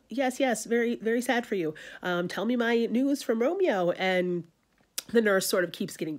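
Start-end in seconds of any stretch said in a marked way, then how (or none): 0.1-3.9 higher, brushing off the complaints; impatient Juliet. Retold or imitated. Juliet cuts off the tired nurse, impatient. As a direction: hurry her along, mock impatient. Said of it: "And Juliet's like".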